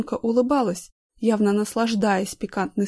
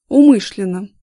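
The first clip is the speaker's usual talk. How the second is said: a flat, much louder "Умышленно"; firm answer; 9 dB louder than usual. A narrator's reading. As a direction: state it hard, no doubt. Vlad answers firmly.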